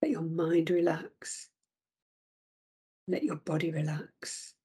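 gentle unvoiced spa whisper. Whispered instruction in meditation.

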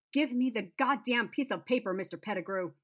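high, loud screech. Acted. She screeches at Pettigrew to hand over the paper. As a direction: screech it, eyes wild. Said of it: "I screeched".

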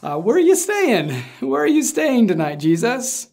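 sheepish. Retold or imitated. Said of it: "kinda sheepishly".

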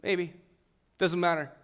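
offhand, mildly indifferent; dismissive shrug. Retold or imitated. Answering a promise through a cynical lens, mildly dismissive. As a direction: brush it off lightly. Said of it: "I would hear it through the lens of".

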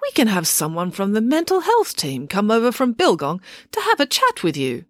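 put-on gentle, kindly old doctor. Scene: old doctor kindly offering Dad a bed, gentle. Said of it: "he asked kindly".

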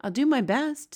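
a touch of patient willingness. A narrator's reading. Sophie answering the giant, mildly patient. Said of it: "Sophie said patiently".

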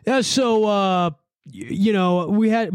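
mock cop giving his account; dorky cop tone. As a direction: stall importantly like a dorky cop. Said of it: "such a fucking dorky tone".

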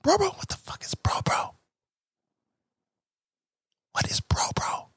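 hushed, confused whisper; baffled whisper. Pretend. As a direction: whisper the puzzled reaction. Baffled strangers voiced.

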